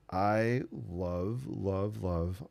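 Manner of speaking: love, love, love drawn out with relish; emphatic gushing. Real, not acted. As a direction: stretch each "love" with a lilting rise. Gushing over the painting's colors.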